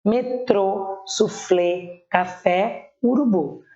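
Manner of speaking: metrô, suflê, café, urubu, each leaning on its final syllable; one word at a time, weight on TRÔ, FLÊ, FÉ, BU; stress on last syllables. Shown as a demonstration. Teacher listing oxytone examples, stressing the end of metrô, suflê, café, urubu. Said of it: "Palavras cuja última sílaba é tônica".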